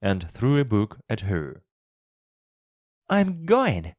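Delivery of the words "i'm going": high, cross retort; Mary shouting back. A narrator's reading. Girl storms out on the sick boy, shouting back. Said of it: "Mary shouted in reply".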